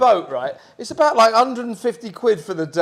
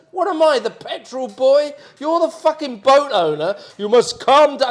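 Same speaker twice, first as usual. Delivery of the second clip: high, loud mock outrage; retold argument; 9 semitones higher, 8 dB louder than usual. Renter arguing with the boat owner, mock outraged. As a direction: fire back at him in a raised voice. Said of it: "I said".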